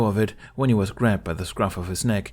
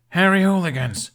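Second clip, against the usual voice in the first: much higher, loud full-lunged call; bellow; 11 semitones higher, 7 dB louder than usual. A narrator's reading. Hiccup on a table calling the village, bellowing. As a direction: silence a crowded hall. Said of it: "he bellowed at the top of his lungs".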